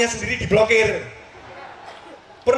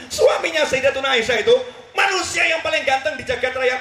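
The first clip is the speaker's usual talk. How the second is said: excited exclamation; 4 semitones higher than usual. Real, not acted. Preacher exclaiming praise.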